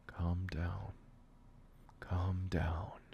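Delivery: whispered, steadying himself; whispered to self. Acted. Aiden whispering to himself to stay calm. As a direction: breathe the words out to calm down.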